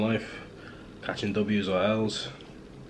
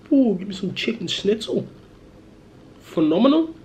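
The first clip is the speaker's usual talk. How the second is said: much higher and louder, rapturous; excited rave; 12 semitones higher, 5 dB louder than usual. Real, not acted. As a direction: rave about the schnitzel. Raving about Austrian food.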